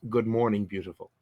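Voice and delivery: soft murmured morning greeting; lightly voiced male lover, trailing into a low hush; Tito. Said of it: "this low masculine voice, uh, murmuring".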